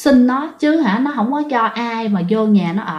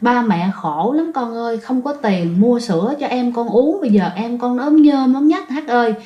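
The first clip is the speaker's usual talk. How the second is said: tearful lament. Retold or imitated. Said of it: "mợ khóc. Rồi khi khóc cũng có than".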